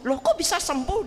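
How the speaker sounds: mildly startled question; retold surprise. Doctor hearing the hand has healed, mild retold surprise. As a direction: act out a doctor's puzzled surprise. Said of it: "Dia kaget".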